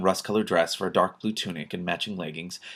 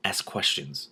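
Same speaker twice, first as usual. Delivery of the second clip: softly; 2 semitones lower, 5 dB quieter, slower than usual. Acted. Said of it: "just as softly".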